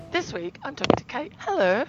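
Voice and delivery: hoarse from a sore throat; rough, scratchy throat voice; gravelly voice. Real, not acted. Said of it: "I had a bad throat and I sound really gravelly".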